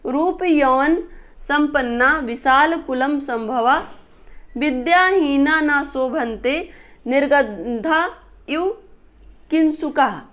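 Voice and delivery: slow, measured Sanskrit shloka reading; verse recitation. Real, not acted. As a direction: draw out each phrase of the verse, pausing between.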